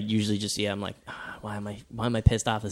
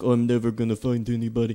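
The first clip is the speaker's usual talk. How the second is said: clumsy, unconvincing put-on Indian accent. Imitating a college roommate, in a bad indian accent. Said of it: "I was doing like an Indian accent there".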